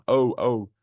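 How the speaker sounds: "O" as a long rounded vowel, twice; isolated O sound. Shown as a demonstration. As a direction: demonstrate the long "O" on its own. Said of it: "The O sound".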